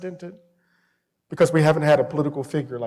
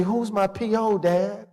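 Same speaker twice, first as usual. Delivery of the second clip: higher, hurt son's voice, lightly imitated; tearful son; 5 semitones higher than usual. Son to dad about the cop's question, mildly tearful. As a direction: repeat it in disbelief, as the upset son. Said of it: "tears are rolling down his eyes".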